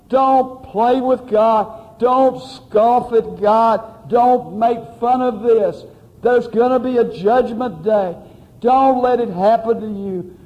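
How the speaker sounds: earnest revival sermon voice; preaching. Acted. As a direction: plead with the congregation to repent. Pleading sermon delivery.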